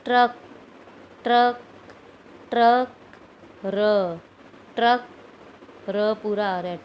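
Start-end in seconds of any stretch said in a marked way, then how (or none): 0.0-5.1 ट्रक said loud and short, the ट barely touched and the र full; demo pronunciation. Shown as a demonstration. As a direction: clip the ट, land hard on र in ट्रक. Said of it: "लेकिन आप बोल के देखिए". (ट्रक ज़ोर से, ट हल्का और र पूरा)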